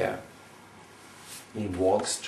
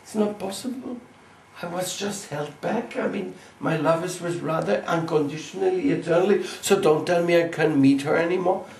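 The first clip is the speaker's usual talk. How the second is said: high, begging lover's voice; Krishna pleading, pitched high and rising louder toward the end; 8 semitones higher, 4 dB louder than usual. Acted. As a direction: plead with her like a heartbroken boy. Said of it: "And Krishna says".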